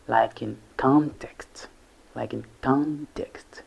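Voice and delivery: slow "context" with "con" set apart; pronunciation example. Shown as a demonstration. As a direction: stretch the first syllable of "context". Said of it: "it is pronounced".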